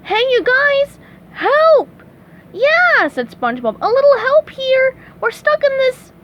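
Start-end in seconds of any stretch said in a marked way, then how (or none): 0.1-3.1 high, loud cartoon shouting; loud high cry for help; calling for help. A narrator's reading. Trapped, calling fish for help. 3.8-6.1 high, loud cartoon plea; raised high voice, begging for help; pleading call. A narrator's reading. Trapped, calling fish for help.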